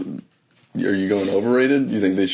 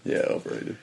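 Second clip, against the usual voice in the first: breathy whisper, much softer; whispered echo; 10 semitones lower, 8 dB quieter than usual. Real, not acted. Co-host whispering agreement that it's overrated. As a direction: whisper it back like an aside. Quietly echoing her co-host's verdict.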